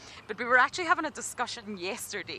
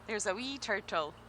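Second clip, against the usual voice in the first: Scottish accent. Shown as a demonstration. Guide asked by viewers, in her Scottish accent. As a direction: say it with a broad Scottish wee. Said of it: "asking me to say a phrase in my fantastic accent".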